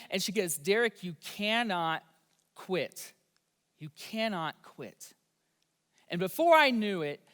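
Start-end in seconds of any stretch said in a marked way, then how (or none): 0.6-5.1 stern mom. Retold or imitated. Mom refuses to let son quit.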